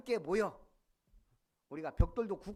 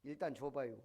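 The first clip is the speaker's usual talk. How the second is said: quoting Yun Bong-gil, plain; 4 semitones lower than usual. Retold or imitated. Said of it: "충청도 사람 윤봉길이".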